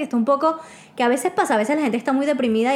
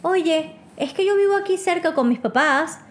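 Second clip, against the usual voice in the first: mildly hammed-up date, higher on the opening; exaggerated date's voice; 4 semitones higher, slower than usual. Telling friends how the date angled for company, mildly exaggerated. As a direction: lightly exaggerate a quoted suitor. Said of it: "estoy exagerando el tono de voz".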